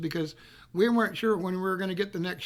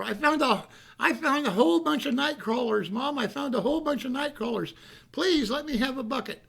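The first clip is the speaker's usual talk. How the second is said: put-on higher, breathless excited child voice; eager kid pleading; 5 semitones higher than usual. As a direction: plead with Mom, bursting with news. Boy pleads with mom.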